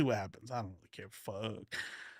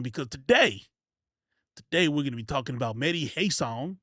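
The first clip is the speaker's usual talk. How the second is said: made-up hype character; 3 semitones higher, 6 dB louder than usual. Acted. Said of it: "Let's make up a character".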